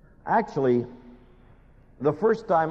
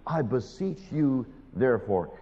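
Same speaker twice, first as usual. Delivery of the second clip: earnest plea. Retold or imitated. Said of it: "Listen to the plea".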